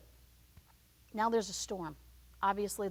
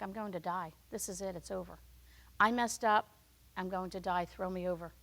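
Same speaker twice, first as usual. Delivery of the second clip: resigned despair; 3 semitones lower than usual. Acted. Jonah facing drowning.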